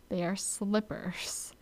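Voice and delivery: whispered under the breath. Real, not acted. Hawaii vlogger whispering the right word to viewers. Whispered aside about slippers.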